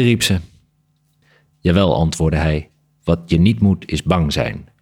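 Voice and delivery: measured literary read-aloud with lightly voiced dialogue; story narration. A narrator's reading. Author reading a bat story fragment to the interviewer, story narration. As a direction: read the tale aloud with deliberate phrasing.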